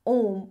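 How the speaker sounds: ओम low, with the ओ held long; prolonged calling vowel. Shown as a demonstration. Teacher's example of calling someone far off, ओम drawn out. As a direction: draw out the ओ of ओम in a low voice. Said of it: "आवाज लगाकर बुलाते हैं, तब इसका प्रयोग".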